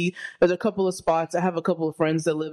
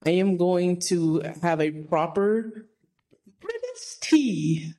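playful fake British, pitched way up; mock British accent; 4 semitones higher than usual. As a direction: put on a hammed-up posh British tea-time voice. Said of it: "are you gonna talk like that".

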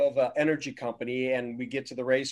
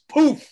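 loud, high poof; imitated pop; 12 semitones higher, 8 dB louder than usual. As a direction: burst it like a tire going. Imitated noise.

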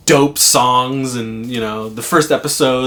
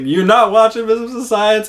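mock stern verdict; 11 semitones higher, 6 dB louder than usual. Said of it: "he's like".

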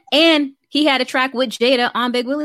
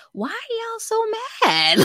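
high-pitched exasperated plea, dropping at the end; 12 semitones higher, 4 dB quieter, slower than usual. Retold or imitated. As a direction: stretch it out, pleading with the haters. Exasperated retort to Will Smith haters.

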